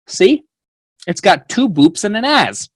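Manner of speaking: high, loud, delighted show-and-tell; excited grandpa. Retold or imitated. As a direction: proudly show off the puzzle piece. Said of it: "he holds this puzzle piece up and he goes".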